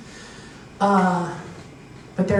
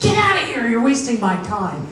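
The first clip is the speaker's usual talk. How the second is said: angry officer; 4 semitones higher than usual. Retold or imitated. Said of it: "the officer is so angry".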